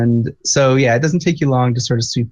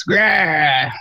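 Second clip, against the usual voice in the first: orc grunt; 4 semitones higher than usual. Acted. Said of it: "one of the voices that's causing the commotion is a orc voice".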